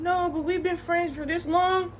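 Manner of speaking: high, drawn-out mock protest; young girl protesting. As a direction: mimic a youngster pleading, high and slow. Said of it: "you wanna be young and".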